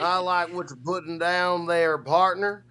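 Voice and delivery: slow, drawn-out cowboy twang. Pretend. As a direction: lay on the cowboy twang slowly. Repeats line in cowboy drawl.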